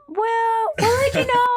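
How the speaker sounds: high, polite brush-off voice; mock recruiter dismissal; dismissive brush-off. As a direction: let her down with fake politeness.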